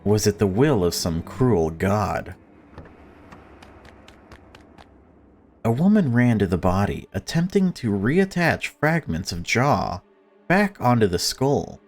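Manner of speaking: measured, lightly dramatic reading; story narration. Acted. Streamer reading the game's story, steady narration. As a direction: tell it like a grim tale, steady. Reads game story aloud.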